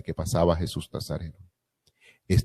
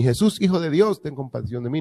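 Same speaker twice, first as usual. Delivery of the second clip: imagined plea; 7 semitones higher, 3 dB louder than usual. Retold or imitated.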